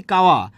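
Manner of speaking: কাওয়া with hard ক in place of খ; aspiration dropped. Shown as a demonstration. Teacher showing lost aspiration, কাওয়া with k for kh. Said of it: "খাওয়াকে কি বলছি?".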